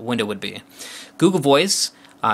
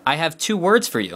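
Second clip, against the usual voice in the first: higher, carefully spoken dictation; dictating to phone; 5 semitones higher than usual. Shown as a demonstration. Reviewer dictates a phrase to the translate app, clear dictation. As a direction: say it clearly for voice recognition. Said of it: "so I, I tell it".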